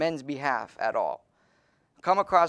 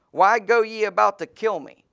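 loud, higher reading of the question; ringing verse reading; 7 semitones higher, 9 dB louder than usual. Acted. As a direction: let the question ring out. Reads Jesus's words in the verse.

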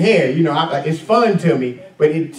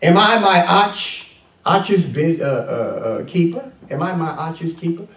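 smart-mouthed Cain; 2 semitones higher than usual. Acted. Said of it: "You get smart with God".

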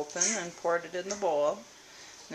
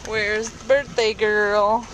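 sing-song calling; 3 semitones higher, 6 dB louder, slower than usual. Real, not acted. Calling out for birthday child.

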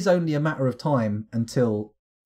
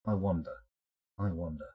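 musing fade; 8 semitones lower, 9 dB quieter than usual. Real, not acted. Repeated musing, fading.

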